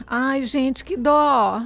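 lightly voiced sorry sigh; sighing pity. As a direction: act out a sighing mineira. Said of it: "suspirará".

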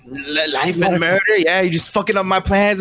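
high, indignant goblin protest; irate goblin. Acted. Goblin whose workers were killed, high and irate. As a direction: squeal it high, outraged at the loss. Goblin sputters back at party.

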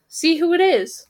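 high raven; a knowing raven tone. Acted. Second raven voice.

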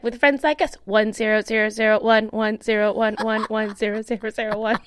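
monotone run of digits, lightly robotic; mock machine-speak on a level pitch; binary code recital. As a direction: rattle it off like a computer reading code. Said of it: "binary code".

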